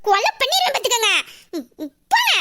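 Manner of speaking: miffed threat, rising on the dismissal; angry. Acted. Girl warning her lover off, angry. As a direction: shoo him off crossly. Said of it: "அத்தி கோவமா இருக்க போல".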